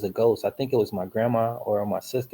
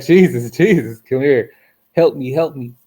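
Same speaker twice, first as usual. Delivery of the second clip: urgent plea; 2 semitones higher, 8 dB louder than usual. Retold or imitated. Storyteller reliving a silent prayer while paralysed, loud urgent pleading. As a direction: call out for rescue, hammed up a little.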